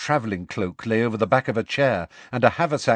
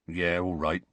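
reluctant giving in; 3 semitones lower, 5 dB quieter than usual. A narrator's reading.

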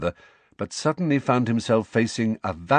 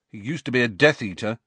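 stubborn; faster than usual. Acted. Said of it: "said Ron stubbornly".

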